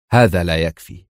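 clipped, unyielding refusal; sterner. A narrator's reading. Adham refuses the American's terms, sternly. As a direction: shut the offer down flat and hard. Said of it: "في صرامة أشد".

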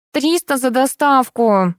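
slow, high whiny plea; whining. A narrator's reading. Courier girl whining her fee to the narrator, slow whine. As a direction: whine the price drawn out. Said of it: "законючила девушка-курьер".

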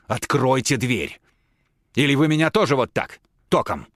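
insisting the professor open the door. Acted. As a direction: spell out each word of the demand. Tatiana demanding door opened.

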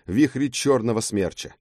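ordinary delivery

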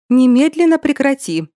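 sharp shout. A narrator's reading. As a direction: cut her off sharply. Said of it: "прикрикнула Кэтрин".

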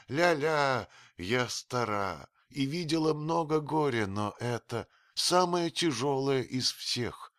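put-on a bitter old woman's lament; grieving old woman. A narrator's reading. Old Atua grieving the priest, sending Harmachis away.

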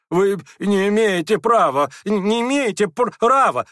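loud indignant stammering cry. A narrator's reading. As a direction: shout it, tripping over the words. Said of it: "вскричал Бурдовский".

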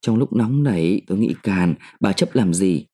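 a hint of a husband backing off meekly. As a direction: soften up to smooth things over. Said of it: "Quan ông giấu dịu".

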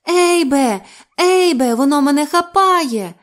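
high, very loud panicked screaming; terrified squeal. A narrator's reading. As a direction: scream for help as it grabs you. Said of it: "відпихає від себе і вищить".

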